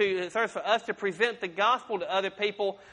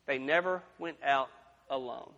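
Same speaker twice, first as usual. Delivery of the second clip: soft repeat; 7 semitones lower, 5 dB quieter than usual. Shown as a demonstration. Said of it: "repeated for emphasis".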